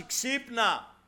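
high, full-force urgent shouting; shouted wake-up call. Acted. Spiritual alarm clock warns a believer trapped by evil, shouting. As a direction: shout a warning to rouse the trapped sleeper. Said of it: "και φωνάζει".

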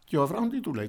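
normal talking voice

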